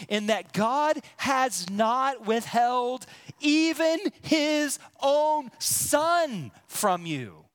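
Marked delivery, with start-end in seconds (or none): 1.7-7.5 "even" high and loud, then slow; slow and lean on even his own son; stress on even his own son. Real, not acted. Preacher telling the church God gave even his son, weighted. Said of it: "preacher stresses God's gift".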